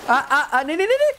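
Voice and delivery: high, scared no's; panicked cries. Real, not acted. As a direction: shriek as it comes at you. Monster spots him. (डर से ऊँची चीख)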